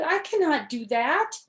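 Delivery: loud, high protest; shouting. A narrator's reading. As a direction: keep yelling the refusal. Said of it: "shouted Toad".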